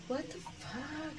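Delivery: slow whispered disbelief. Retold or imitated. Whispering her disbelief at the mirror. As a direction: breathe it out in awe. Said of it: "But I'm like".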